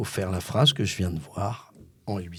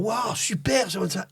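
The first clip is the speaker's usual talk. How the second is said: mock enthusiasm; 10 semitones higher, 4 dB quieter than usual. Guest imitating the praise Becker didn't give, mock-gushing. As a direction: coo with hammed-up delight. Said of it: "au lieu de faire".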